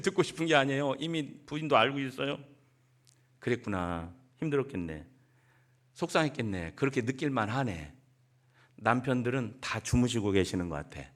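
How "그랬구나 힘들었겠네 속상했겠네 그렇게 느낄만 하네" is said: gentle empathy. Shown as a demonstration. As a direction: lower and softer, soothing. 공감하는 남편 말 시범. (아내를 위로하는 남편, 낮고 부드럽게)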